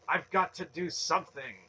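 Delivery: high, loud, urgent protest; raging. A narrator's reading. Young man desperate to stop the sacrifice, raging high protest. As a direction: burst out with helpless rage. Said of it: "Garion raged silently".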